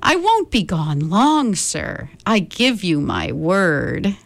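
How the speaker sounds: lightly voiced pleading bird. Maisie promising Horton she'll hurry back, mildly pleading. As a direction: coax and promise sweetly. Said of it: "begged the bird".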